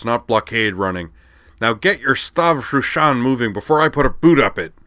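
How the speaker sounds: loud, rough captain voice rising to a threat; gruff ship captain, impatient. Acted. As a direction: talk down to the kids like a fed-up skipper. Lorg the captain lectures.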